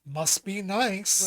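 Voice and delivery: slow, drawn-out sarcastic jab, at normal level; snide remark. Retold or imitated. Someone responds to the host's good news with slow sarcastic envy. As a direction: drag it out, mock-envious. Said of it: "someone else goes".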